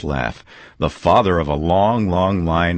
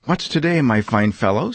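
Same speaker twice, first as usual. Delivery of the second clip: much higher call to the street; 5 semitones higher than usual. Acted. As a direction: call down to a boy below. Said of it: "said Scrooge".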